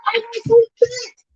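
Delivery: very high, crying-edged gush. Real, not acted. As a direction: squeal with delight over the babies. Gushing over her babies' looks.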